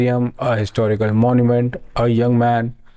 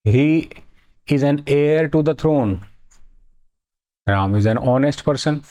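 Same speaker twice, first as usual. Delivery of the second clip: is an heir to the throne, very slow and deliberate; slow model reading; much slower than usual. Shown as a demonstration. Teacher modelling example sentences, very slow. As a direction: spell out each word slowly for students. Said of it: "slow model reading".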